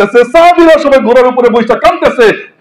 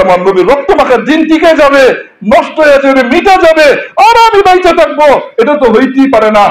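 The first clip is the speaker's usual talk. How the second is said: rising fervent resolve; 3 semitones higher than usual. Retold or imitated. Father's resolve voiced in sermon.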